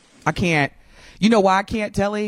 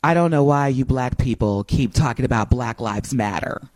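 mock objector; 3 semitones lower than usual. Host parodying All Lives Matter objectors, mock objector. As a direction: put on a touch of mock bafflement.

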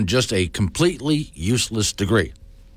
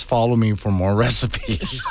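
laughing. Retold or imitated. Quoting a meme caption, laughing.

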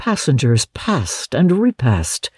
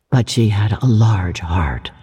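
whispering ghost; 5 semitones lower than usual. A narrator's reading. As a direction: breathe it like a ghost.

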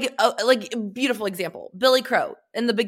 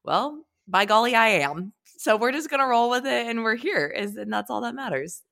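slightly raspy voice from a cold; a little hoarse, stuffy with a cold; raspy head cold. Real, not acted. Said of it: "If I sound a little raspier".

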